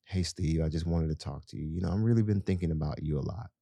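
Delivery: gentle caring wife talking to husband. Shown as a demonstration. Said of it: "lower your voice".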